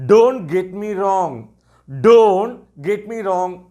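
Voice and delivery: very slow, clearly spaced words; slow teacher model phrase. Shown as a demonstration. Teacher modelling the phrase slowly for students. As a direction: spell it out for beginners. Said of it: "இப்படியும் சொல்லலாம்".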